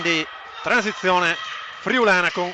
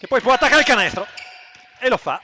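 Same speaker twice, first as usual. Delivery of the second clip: excited call; 4 semitones higher than usual. Real, not acted. Commentator calls a fast attack.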